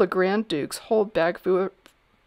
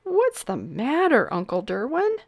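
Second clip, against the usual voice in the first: put-on small boy's voice; 6 semitones higher than usual. A narrator's reading. Nephew calling up to his uncle the king, boyish. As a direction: pipe up like a little boy. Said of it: "like the voice of a boy".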